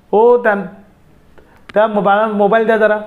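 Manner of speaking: lightly acted call from another room; calling from kitchen. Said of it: "किचनमधून आवाज आला".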